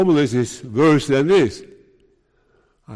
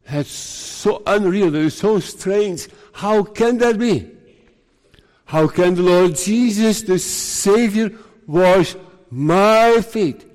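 disbelieving; 5 semitones higher than usual. Acted. Preacher voicing Peter faced with Jesus washing his feet, incredulous. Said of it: "He could not believe it".

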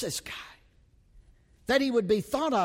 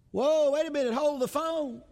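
mock surprise; 8 semitones higher than usual. Mock interruption of his reading.

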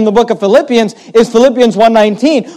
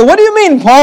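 high mock question; 7 semitones higher, faster than usual. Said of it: "You say".

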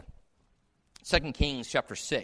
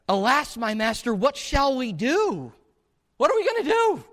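higher and louder, rising into a frightened wail; a terrified servant crying for help; panicked cry; 9 semitones higher, 6 dB louder than usual. Acted. Attendant crying out to Elisha at the army, panicked and much higher. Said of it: "he cries out to Elisha".

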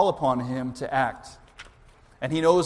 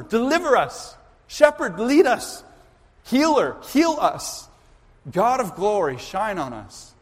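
impassioned plea; 2 semitones higher than usual. Acted. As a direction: cry out to God, reminding Him who He is. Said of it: "appeal to him and say".

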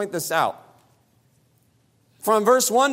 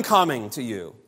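low, intimate; 8 semitones lower than usual. Shown as a demonstration. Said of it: "in verse five".

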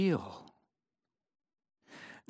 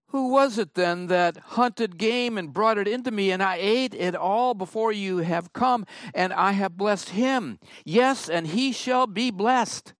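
higher, louder, urgent outcry; trembling Isaac; 6 semitones higher, 4 dB louder than usual. Acted. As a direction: cry it out as if violently shaken. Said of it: "Isaac trembled very violently".

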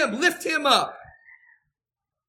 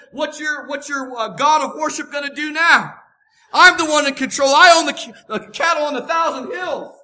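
mock their god as the almighty; loud triumphant challenge; divine taunt; 2 semitones higher, 6 dB louder than usual. God taunts Egypt's cow god.

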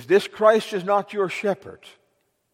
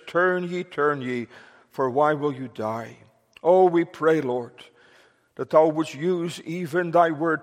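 prayer. Real, not acted. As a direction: pray reverently on behalf of the congregation. Closing prayer after "Let us pray.

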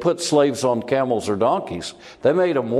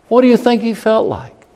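much higher and louder, pressing the point; urgent raised question; 10 semitones higher, 6 dB louder than usual. Acted. Preacher presses congregation on Joseph's feelings, loud and urgent. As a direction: make them feel Joseph's pain.

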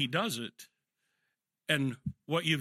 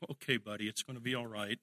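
soothing; 3 semitones lower, 6 dB quieter than usual. Retold or imitated. Soothing sick son in recovery.

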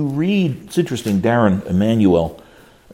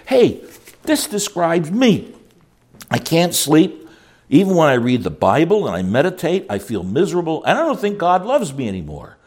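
higher, miserable confession; distressed counselee; 5 semitones higher than usual. Retold or imitated. Counselee telling the pastor, a touch of distress. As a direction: pour out the misery in a raised voice. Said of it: "A person will say".

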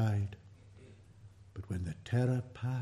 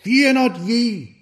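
higher and louder, slow, weight on Fear; commanding emphasis; 12 semitones higher, 13 dB louder, slower than usual. Shown as a demonstration. Preacher voices the angel's command to the fearful women, emphatic. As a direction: say it as a firm command. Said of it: "effectively a command".

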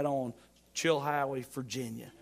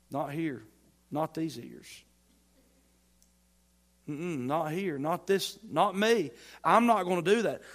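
refusing slander, building; 6 dB louder than usual. Retold or imitated. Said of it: "You're like".

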